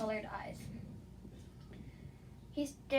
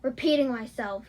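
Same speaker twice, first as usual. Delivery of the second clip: shouting; 8 dB louder than usual. Acted. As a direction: shout it, fed up. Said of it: "he shouted".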